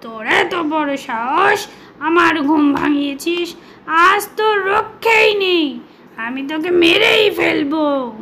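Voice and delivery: a mild growly threat from the lion; angry lion threatening to kill the mouse; roaring lion. Acted. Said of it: "হুংকার ছেড়ে বলল".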